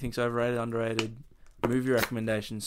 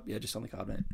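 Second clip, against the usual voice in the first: bored mechanical politeness; 4 semitones lower, 12 dB quieter, faster than usual. Pretend. Acted customer reply.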